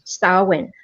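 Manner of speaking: "Samhain" said SAH-een, two syllables; "Samhain" with a Scottish Gaelic ah-een; Scottish Gaelic pronunciation. Shown as a demonstration. Teaching friends the Scottish way: "Samhain" as sah-een. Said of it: "in Scottish Gaelic, it's usually pronounced".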